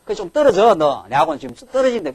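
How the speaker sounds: put-on impatient father pushing his child away; angry father. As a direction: shoo them off impatiently. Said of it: "눈에 불 나갖고 죽어요".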